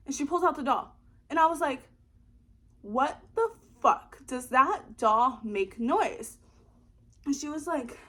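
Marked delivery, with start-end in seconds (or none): 2.8-6.4 slow, loud shocked question; stunned, draw it out; disbelieving slow outburst; shocked disbelief. Retold or imitated. Shocked reaction retold.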